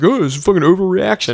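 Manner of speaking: imitated dismissal. Coworker waves away the threat, mock dismissive. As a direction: brush it off, mimicking the coworker.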